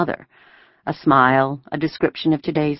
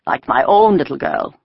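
pleasant soldier's remark, pitched up; more pleasant voice; 6 semitones higher than usual. A narrator's reading. Soldier admiring a little girl, more pleasant. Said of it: "in a more pleasant voice".

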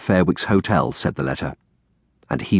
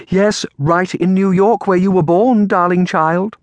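higher, drawn-out, slightly forced smile; forced cheer; 10 semitones higher, 4 dB louder, slower than usual. A narrator's reading. Aunt to the stricken girl, with forced cheer. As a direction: put a brave face on it. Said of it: "Aunt Felicia forced a dim smile".

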